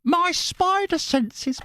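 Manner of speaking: very high, slow squeaky voice; high-pitched viewer voice. Retold or imitated. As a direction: read her message in a silly squeak. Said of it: "all the voices are me".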